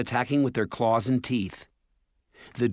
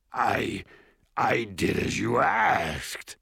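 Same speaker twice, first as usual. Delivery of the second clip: nervous dwarf lord; slower than usual. A narrator's reading.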